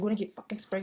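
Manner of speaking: hammed-up furious cop warning; angry cop. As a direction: bark it like a riot cop about to spray. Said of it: "And he's like".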